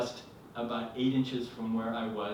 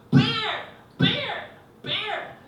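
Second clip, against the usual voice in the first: high-pitched mock scream of alarm; imitated screaming; 7 dB louder, much slower than usual. Wife waking husband about a bear, screaming. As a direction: shriek it as the panicked wife. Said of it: "I was awoken by her screaming".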